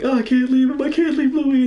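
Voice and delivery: high, loud mock-desperate cry; retold screaming. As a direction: act out screaming for a dying comrade. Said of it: "I'm screaming out to Louis".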